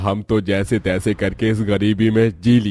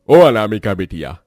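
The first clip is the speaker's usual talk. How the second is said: calling out louder to daughter; father calling his daughter from another room, louder; 5 dB louder than usual. Acted. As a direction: raise the voice to call her from the kitchen.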